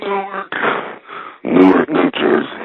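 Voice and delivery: high, slow, coughing, wheezing announcer voice sounding near death. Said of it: "he sounds like he's about to fucking die".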